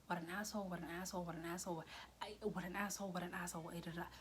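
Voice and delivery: soft, repetitive inner chant; telling herself. Retold or imitated. What she keeps telling herself, soft looping chant. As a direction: repeat it quietly on a loop, tailing off. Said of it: "what I keep telling myself".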